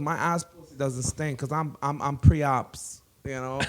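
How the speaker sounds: lightly imitated Latina accent; understated put-on Latina voice; Mauricia. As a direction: explain as a Latina skit character, a hint of accent. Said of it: "does a really good, like, Latina accent".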